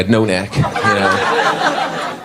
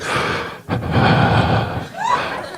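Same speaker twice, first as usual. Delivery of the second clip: acted gasp; 4 dB quieter than usual. LaWanda's sound before seduction.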